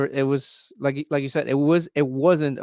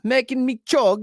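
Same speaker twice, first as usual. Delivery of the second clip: put-on voice; 11 semitones higher than usual. Showing cohost he does voices, high comic grumble. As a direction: play a grumbling character, pitched up. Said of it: "I do voices".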